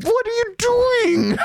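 mock-stern, drawn out; glaring demand. Retelling glaring at the noisy puppy, high mock-stern question. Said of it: "I glare at him like".

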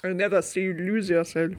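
soft, mock French accent; deliberately poor French accent impression; bad French accent. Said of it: "I'm doing a bad French accent".

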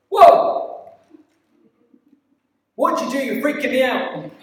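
high, loud shocked outburst; startled shout. Retold or imitated. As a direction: yell it as if totally freaked out. Acted startled reaction to miracle.

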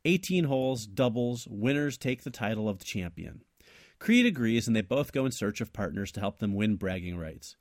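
measured read-aloud of a written tale; story narration. A narrator's reading. Co-host reads his invented sequel, steady story narration. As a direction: narrate the plot in steady phrases.

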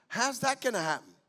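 open, wondering ask; preacher demoing faith; faith-filled version. Shown as a demonstration. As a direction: say it expecting an answer. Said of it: "same question can be asked in two ways".

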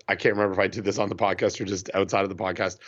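talking between sips of coffee; while sipping a drink. Real, not acted. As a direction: speak around a sip of coffee. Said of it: "sorry, that's me sipping my, my coffee".

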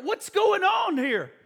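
high, slow demanding question; furious brother. Acted. Older brother asks servant about noise, high slow angry demand. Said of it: "he begins to become furious".

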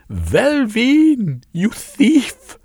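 high, piercing screech of an outraged mother. A narrator's reading. Mother screeching at her thieving son from the banister. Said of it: "she screeched".

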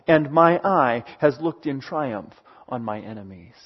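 measured, solemn psalm reading; scripture reading. Acted. A preacher reading David's psalm to the congregation, solemn. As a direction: read the prayer out with reverence.

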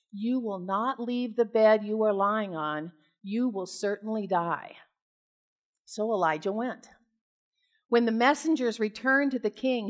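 measured, formal Bible reading voice; steady public reading of scripture. Acted. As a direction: read the passage like a lector. Reads scripture aloud.

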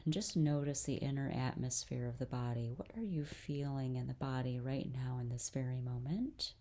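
calm guided-breathing voice with long pauses; guided meditation. Real, not acted. Host leads listeners through breathing, guided meditation. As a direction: lead them gently through each breath, unhurried.

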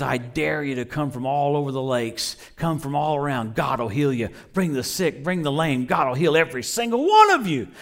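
lightly imitated revival preacher with a rock-and-roll singer touch; a hint of rock-and-roll-singer-style evangelist; crazy preacher. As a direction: call out a mock healing invitation, building at the end. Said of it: "He gets that crazy preacher look and goes like this. He does a famous singer".

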